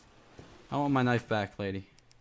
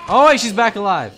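laughing in shock; 7 semitones higher, 14 dB louder than usual. Real, not acted. Zombie revives, laughs.

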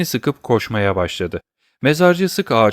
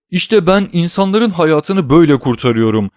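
raised, louder cry of self-reproach; narrated outcry; 7 semitones higher, 5 dB louder than usual. A narrator's reading. Old man reproaching himself over the man he meant to save, crying out. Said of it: "diye bağırdı".

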